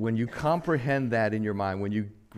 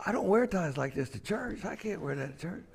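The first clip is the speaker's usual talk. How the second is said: retold protest; 7 semitones higher, 7 dB quieter than usual. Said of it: "I said".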